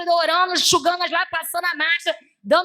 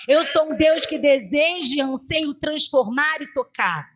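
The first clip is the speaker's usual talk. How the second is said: insistent preaching, slowing into weighty declarations; sermon cadence that grows more deliberate; prophetic proclamation. Retold or imitated. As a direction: declare it as God's own word. Voices God's word to church.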